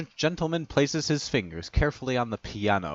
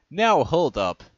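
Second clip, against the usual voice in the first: shouting; 6 semitones higher, 7 dB louder, slower than usual. A narrator's reading. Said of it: "shouts Enternode".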